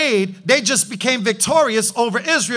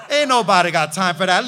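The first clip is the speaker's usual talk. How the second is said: laughing brush-off; 5 semitones lower, faster than usual. Retold or imitated. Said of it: "And Elijah was like".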